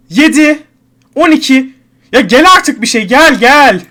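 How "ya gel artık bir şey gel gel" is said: urging shout. Real, not acted. Urging the wheel to roll high.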